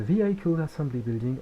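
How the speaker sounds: French speaker putting on his English accent for the name. Shown as a demonstration. Tutor showing off his English accent to viewers, English accent. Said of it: "on adore mon accent anglais".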